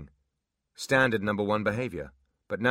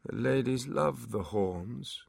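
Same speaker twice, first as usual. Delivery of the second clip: dazed drawl; 4 semitones higher, much slower than usual. Acted. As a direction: drift off mid-boast. Dazed demon.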